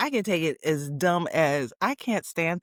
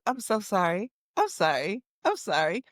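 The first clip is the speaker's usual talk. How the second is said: mock repeated sympathy. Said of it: "the worst thing you could say".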